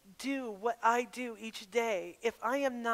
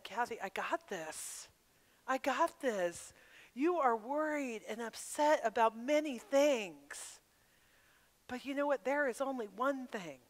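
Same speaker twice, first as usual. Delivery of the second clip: God reassuring; 3 dB quieter than usual. Retold or imitated. God answering her prayer.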